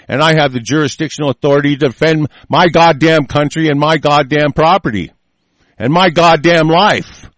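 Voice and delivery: loud, furious ranting; berserk rage. Real, not acted. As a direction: spit out each goddamn with rage. Ranting about defending his property.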